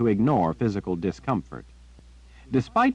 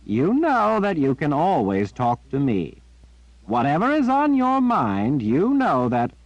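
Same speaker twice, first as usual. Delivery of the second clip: put-on high, warm old man reassuring; gentle Zed; 7 semitones higher, 4 dB louder than usual. A narrator's reading. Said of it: "in a gentle voice".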